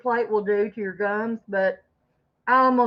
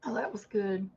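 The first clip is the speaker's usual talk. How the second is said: whispering; 2 semitones lower, 10 dB quieter than usual. Real, not acted. Aside while eating, voice drops.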